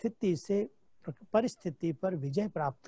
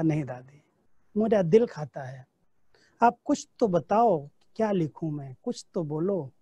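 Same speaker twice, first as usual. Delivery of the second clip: louder, insistent plea to an elder; earnest pleading; 3 semitones lower, 4 dB louder than usual. Retold or imitated. Disciple pleads with ailing Dadi to dictate a letter, insistent and louder. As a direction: press her warmly but firmly, voice pushed up.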